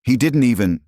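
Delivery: high, loud cut-off protest. A narrator's reading. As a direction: object loudly, get cut off. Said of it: "A woman protested".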